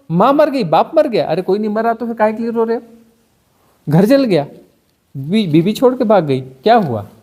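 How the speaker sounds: hammed-up disapproving busybody; mock scolding moralist. Mock scolding someone for crying.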